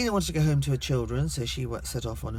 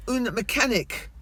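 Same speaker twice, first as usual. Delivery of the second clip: slow, high-pitched pidgin Spanish request; overdone tourist Spanish; loud Brit abroad; 8 semitones higher, 3 dB louder, slower than usual. Retold or imitated. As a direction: push the foreign words out loudly and slowly. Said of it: "loudly as you do, being British".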